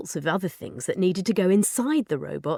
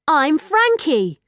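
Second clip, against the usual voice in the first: slow, louder, higher and carefully spaced; slow introduction; 9 semitones higher, 6 dB louder, much slower than usual. Acted. Girl introducing herself to a learning robot, slow and clear. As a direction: say it slowly as if to a child.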